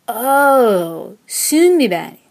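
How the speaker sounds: loud, sing-song Swedish "Sundbyberg" of recognition; drawn-out oh, then Swedish-accented name; Swedish locals. A narrator's reading. Locals finally understanding the suburb's name, Swedish-accented realization. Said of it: "until they said".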